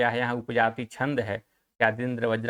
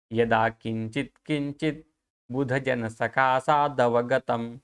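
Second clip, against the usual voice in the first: slow, carefully articulated shloka; careful Sanskrit recitation; slower than usual. Shown as a demonstration. Teacher shows students how to pronounce the verse, careful Sanskrit recitation. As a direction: model each syllable for students, pausing between phrases. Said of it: "इसका उच्चारण बहुत बढ़िया से कीजिएगा".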